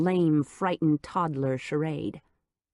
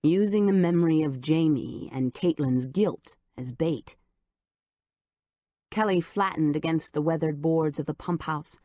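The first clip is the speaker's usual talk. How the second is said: plain reading voice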